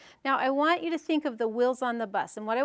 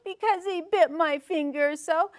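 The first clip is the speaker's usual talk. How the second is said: raised pitch, lilting through "bit my finger so"; explanation tune; 5 semitones higher than usual. Shown as a demonstration. Teacher reciting rhyme to parents, lilting stress on "bit". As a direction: explain it brightly, leaning on "bit". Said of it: "Was there an explanation".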